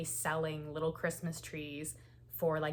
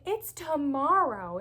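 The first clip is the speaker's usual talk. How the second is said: higher, louder, slow tearful answer; retold crying; 9 semitones higher, 8 dB louder, slower than usual. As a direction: wail it slowly through tears. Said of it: "when I was bawling my eyes out".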